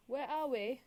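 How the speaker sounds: lightly imitated Australian accent; puzzled tourist with an attempted Australian accent. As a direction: play a bewildered Australian visitor. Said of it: "tourists come in from Australia".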